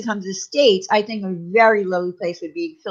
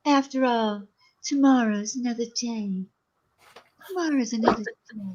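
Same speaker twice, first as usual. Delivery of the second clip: Scarlett O'Hara; 4 dB quieter than usual. Retold or imitated. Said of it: "you've watched Gone with the Wind".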